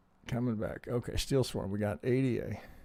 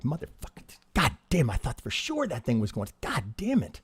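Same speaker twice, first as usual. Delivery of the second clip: exasperated losing trader, lightly acted; mock frustrated cursing; 3 semitones higher than usual.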